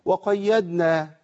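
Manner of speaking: وقيدنا with a dal instead of a dad, slow; dad swapped for dal; wrong dal for dad. Shown as a demonstration. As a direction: say وقيدنا with a plain d. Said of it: "وأبدل الضاد بإيه؟ بداء".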